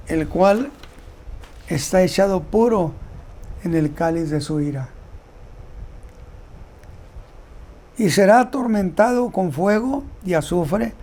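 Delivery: measured, phrase-by-phrase Bible reading; solemn scripture reading. Acted. Preacher reading the third angel's warning to the congregation, solemn scripture reading. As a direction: read out the verses deliberately, with long pauses.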